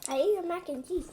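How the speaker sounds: talking with a mouthful; words round a bite of food; chewing while talking. Real, not acted. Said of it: "What are you eating?".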